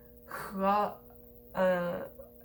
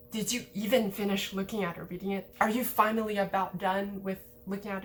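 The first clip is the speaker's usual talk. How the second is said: a mildly impatient, dismissive ask with weight on even; doubtful impatient question; faster than usual. Shown as a demonstration. Teacher demos a doubtful question to a listener, mildly impatient. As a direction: lean on even, doubting they finished at all. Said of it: "it has a more doubtful, uh, impatient, dismissive sort of vibe".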